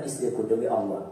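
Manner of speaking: husband sweet-talking his wife before giving advice; gentle husband. Retold or imitated. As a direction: coax her gently, lovingly. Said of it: "Tapi kalau katakan".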